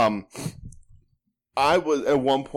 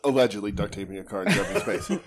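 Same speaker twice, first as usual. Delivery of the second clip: laughing. Real, not acted. Laughing correction.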